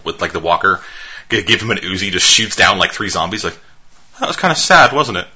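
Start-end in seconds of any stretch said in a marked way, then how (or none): 4.2-5.3 put-on Cockney accent. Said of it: "you know, Cockney and shit".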